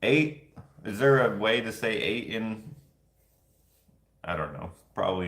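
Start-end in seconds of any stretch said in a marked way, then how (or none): 0.0-0.5 mock olde English. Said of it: "ye old".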